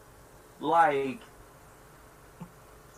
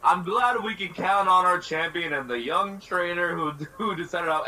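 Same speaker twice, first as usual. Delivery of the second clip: sarcastic. Retold or imitated. Sarcastic mock praise of champion.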